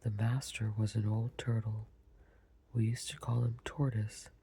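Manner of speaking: understated sob held under the words; calmer sobbing Mock Turtle. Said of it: "though still sobbing a little".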